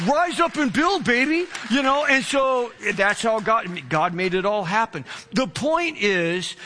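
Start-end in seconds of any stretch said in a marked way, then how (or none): 0.1-1.5 triumphant cheer. Retold or imitated. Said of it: "I'm like".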